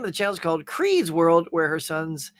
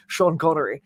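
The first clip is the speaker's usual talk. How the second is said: bad Scottish impression with slushy s sounds; Sean Connery. Shown as a demonstration. Streamer showing how he finds the accent, bad Scottish impression. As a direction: slip into a rough Scottish film-star voice. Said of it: "sounds like a bad Sean Connery impression".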